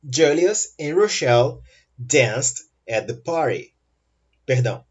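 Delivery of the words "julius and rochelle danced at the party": slow, evenly spaced words; slow model sentence. Shown as a demonstration. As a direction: model it slowly for learners. Teacher models example sentence slowly. (frase-modelo lenta e pausada)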